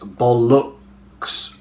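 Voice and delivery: "bollocks" drawn out slowly with uh in the second syllable; "bollocks" spelt out by ear, second vowel uh; schwa demonstration. Shown as a demonstration. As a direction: say "bollocks" slowly as BOL-LUHKS. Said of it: "the uh sound is there again".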